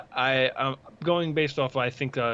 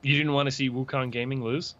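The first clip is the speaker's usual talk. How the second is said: sarcastic. Pretend. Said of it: "I'm being sarcastic".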